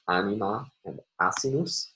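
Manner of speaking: "anima" and "asinus", each stressed on its first syllable. Shown as a demonstration. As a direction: say "anima and asinus" as Latin, weight on each opening "a". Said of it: "would have been stressed as".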